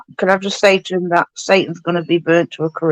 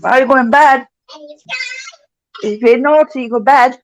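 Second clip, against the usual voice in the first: higher-pitched parental telling-off; 4 semitones higher than usual. Real, not acted. Parent to a naughty child about bed, raised warning voice. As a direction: lay down the bedtime rule.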